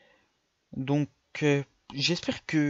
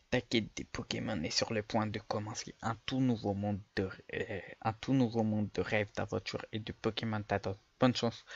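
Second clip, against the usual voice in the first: put-on lightly lowered old professor voice; a hint of an old man, softer; 3 semitones lower, 4 dB quieter than usual. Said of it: "je vais faire une voix de vieux".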